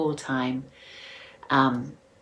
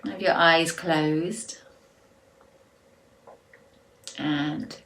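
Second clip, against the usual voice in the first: unhurried guiding voice with long pauses; guided relaxation; 3 dB louder than usual. Real, not acted.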